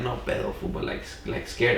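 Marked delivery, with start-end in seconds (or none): 0.0-0.7 cool, tough No pedo, fool. Shown as a demonstration. How he didn't say it to the knife guy, tough. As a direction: say No pedo like you're not scared at all. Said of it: "I didn't say it like that".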